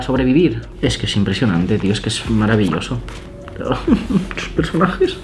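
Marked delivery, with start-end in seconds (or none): 3.5-5.2 laughing. Real, not acted. Gushing over artbook illustrations.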